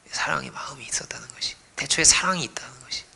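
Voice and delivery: whispered reverence; hushed. Real, not acted. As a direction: draw them in with a whisper. Intimate sermon moment.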